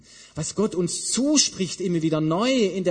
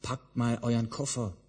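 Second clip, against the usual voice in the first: mock marching orders; 4 semitones lower, 5 dB quieter than usual. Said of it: "sagt eben Jesus nicht".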